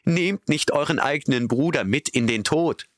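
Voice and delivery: high, desperate appeal; pleading call. A narrator's reading. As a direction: beg the horses to stop. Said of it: "riefen sie". (hohes, verzweifeltes Flehen)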